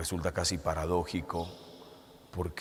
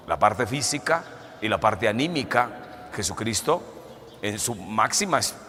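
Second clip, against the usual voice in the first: forceful preaching; 3 semitones higher, 3 dB louder than usual. Acted. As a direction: preach it out to the congregation.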